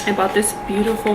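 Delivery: ordinary talk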